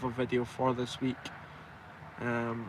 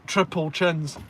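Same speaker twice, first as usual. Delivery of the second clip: laughing; 2 semitones higher, 4 dB louder, slower than usual. Real, not acted. Joking about his chins.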